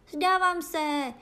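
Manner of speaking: high, drawn-out surrender; high, slow anguished cry; terrified cry. A narrator's reading. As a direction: wail surrender in mortal fear. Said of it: "vykřikl zloděj v smrtelné úzkosti".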